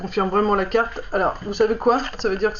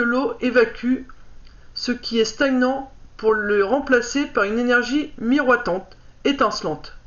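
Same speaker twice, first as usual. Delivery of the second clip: lire le livret posément, un peu plus haut que la parole; lecture à voix haute; 2 semitones higher than usual. Acted. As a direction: read out a card's message clearly, phrase by phrase. Reads card booklet aloud. (lecture appliquée à voix haute)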